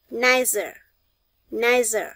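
nicer with the final er as a short uh; schwa ending. Shown as a demonstration. Teacher drills class on nicer, final uh. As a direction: model nicer twice, clear uh ending. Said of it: "Các bạn để ý những âm này".

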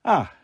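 falling, yawny "ah"; yawning sigh. Acted. Mum yawning and stretching on the sofa, sleepy. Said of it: "yawning and stretching".

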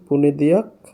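"পুনেদিয়াক" with ya in the last syllable; J pronounced ya. Shown as a demonstration. Teacher showing the J sound, "পুনেদিয়াক" ending in yak. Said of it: "এটাও ইয়া উচ্চারণ হচ্ছে".

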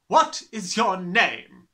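slow, loud interrogation; loud demand. Acted. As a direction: demand the name. Trunchbull demanding.

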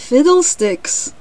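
high, loud, drawn-out exclamation; exclaiming cricket. A narrator's reading. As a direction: burst out slowly as the cricket. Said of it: "replied the cricket".

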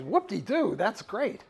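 mock delight. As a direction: play an eager admirer, lightly hammed-up. Acted tribe delighted by older woman.

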